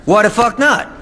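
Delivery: defiant snap back. Acted. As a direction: throw it back at the judge. Defiant retort to the judge.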